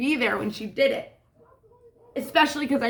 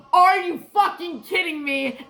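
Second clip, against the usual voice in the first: high, loud outraged question; hammed-up disbelief at a small mishap; mock exasperation; 8 semitones higher, 5 dB louder than usual. Falling with the trash in front of everybody, mock exasperated. Acts out dropped-trash outburst.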